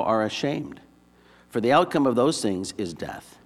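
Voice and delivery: measured Bible reading with deliberate phrase breaks; scripture reading. Acted. Preacher reading Paul's letter to the congregation, measured scripture reading. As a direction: read the verses aloud in clear, separate phrases. Reads scripture passage aloud.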